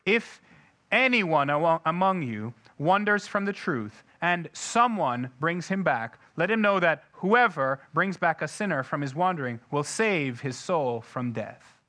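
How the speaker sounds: reading with new stress on who acts; different emphasis. Shown as a demonstration. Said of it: "reread this with a different emphasis".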